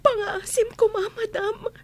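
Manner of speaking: crying plea. Acted. Maid pleading with madam, crying.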